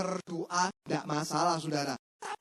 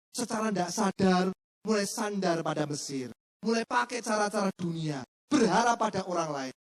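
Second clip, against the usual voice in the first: usual speaking voice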